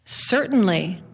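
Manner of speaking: low, composed divine reply; lightly voiced God, low and assured. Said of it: "And the voice replies".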